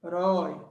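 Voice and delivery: "Herói" as a long HE, pause, RÓI; separando sílabas. Shown as a demonstration. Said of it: "Qual a sílaba forte?". ("Herói" pausado, sílaba por sílaba)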